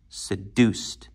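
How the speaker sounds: seduced with the weight on -DUCED; light se-, strong long DUCED in seduced; stress on second syllable. Shown as a demonstration. Teacher demonstrating natural word accent, seduced stressed on its end. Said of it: "naturally has an accent on the deuced".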